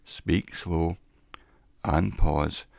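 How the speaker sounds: slow, deliberate delivery; measured and unhurried, pausing between phrases; slow with pauses. Shown as a demonstration. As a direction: speak slowly and leave a clear pause. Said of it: "you have to speak slow".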